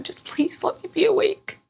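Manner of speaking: high, small plea; retold begging. Patient begging her doctors to stay awake, high retold plea. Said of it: "I just remember begging them".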